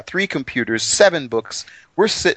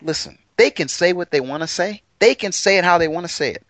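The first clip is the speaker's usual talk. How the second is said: fed-up God, acted; 2 semitones higher than usual. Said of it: "Yehovah's like".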